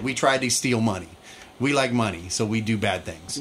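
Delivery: a hint of dopey bad guys confessing; mocking the show's villains and their dumb dialogue, in a low mock voice. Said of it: "That's what they said".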